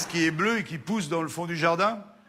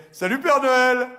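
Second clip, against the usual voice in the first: sultry woman greeting; 7 semitones higher, 6 dB louder, slower than usual. Acted. Sexy woman greets Santa.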